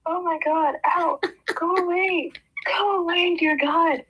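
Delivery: high pained laughing ows; leg cramp pain. Real, not acted. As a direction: whimper through a cramp, laughing. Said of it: "I'm in pain".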